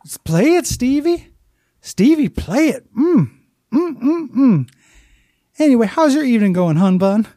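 high, sugary Southern lady voice, humming along; Southern fried lady. Retold or imitated. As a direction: coo at the radio like a sweet Southern clerk. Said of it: "this kind of Southern fried lady".

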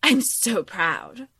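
high, sing-song mock pride, then slowing; a hammed-up villain mom beaming; mock proud mother. Mocking the villain mother's pride in her daughters. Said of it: "and then she goes".

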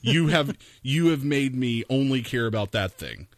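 mock intense threat. Telling the phone girl she made him obsessed, mock intense. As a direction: lean in to unnerve her.

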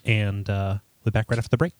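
lightly voiced public radio host; a hint of a public radio host cadence; Ira Glass. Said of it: "Do you got an Ira Glass?".

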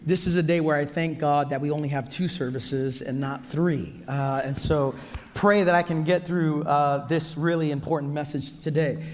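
lost voice, rough and strained; hoarse voice. Real, not acted. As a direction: speak through a worn-out, hoarse voice. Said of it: "as you can hear already, I've lost my voice".

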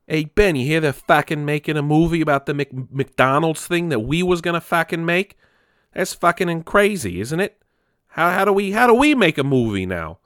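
mock Boston bro voice; bad Boston accent. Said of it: "it was not a good Boston accent".

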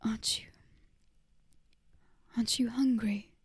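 faint, faltering question; weakly. A narrator's reading. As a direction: ask it with almost no strength. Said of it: "Lara said weakly".

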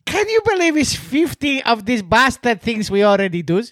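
mic clipping and distorting; too close to the microphone, blown out; clipping distorted mic. Real, not acted. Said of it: "Stop yelling into your microphone".

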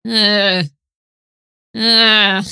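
drawn-out, loud "ugh" of discomfort; long mock groan of unease; disgusted groan. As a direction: groan as if put off by something unpleasant. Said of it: "but you're just like".

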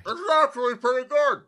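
high, squeaky pig voice, calmer now; pleased hog. Acted. Hog tasting the pear, high squeaky pig voice. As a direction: savor it in the hog voice.

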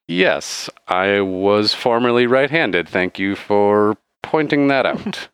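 slow, deliberate bartender reply; lightly voiced barkeep, drawn-out words. Bartender thanks a customer for noticing, slow measured voice. Bartender answers the righty question.

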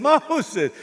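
high, loud mock scolding; mock harsh rebuke. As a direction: blast Moses like a harsh critic. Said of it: "Jethro didn't do that".

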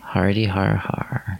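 dry slow mock laugh; deadpan it sarcastically; sarcastic. Real, not acted. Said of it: "sarcastic fake laugh".

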